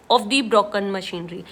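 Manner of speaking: each word read slowly: "of the broken machinery"; slow careful reading. Shown as a demonstration. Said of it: "Of the broken machinery तो गलत हो जाएगा". (धीमी गति में "of the broken machinery" पढ़ना)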